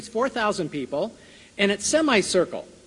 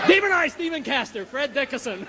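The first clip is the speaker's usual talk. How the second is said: words broken by real giggles; giggling at her own slip; laughing; 5 semitones higher than usual. Real, not acted. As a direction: laugh through the name. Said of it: "this wasn't supposed to be a funny time".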